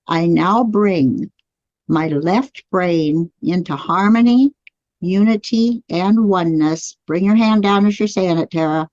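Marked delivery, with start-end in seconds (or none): 0.1-7.0 slow, deliberate affirmation with pauses. Shown as a demonstration. Teacher leading the class in a slow spoken affirmation. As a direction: lead the words slowly for them to repeat. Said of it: "As you say these words out loud".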